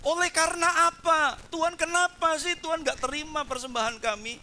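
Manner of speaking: mock pleading question; whining prayer. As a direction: ask God like a puzzled, hurt worshipper. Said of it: "Dan kamu bertanya".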